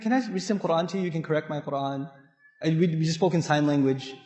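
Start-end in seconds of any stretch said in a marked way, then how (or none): 0.0-2.1 gentle offer. Retold or imitated. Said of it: "I said".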